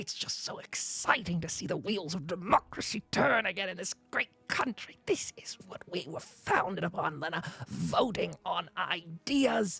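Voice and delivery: restrained excitement. A character tells Lena about a town meeting, restrained joy, inside voice. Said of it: "I would yell my joy about it".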